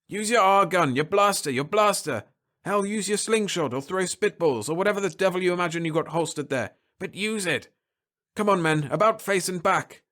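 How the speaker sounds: rally him to fight; urgent captain. Acted. Captain urging Holloway to fight, barked orders.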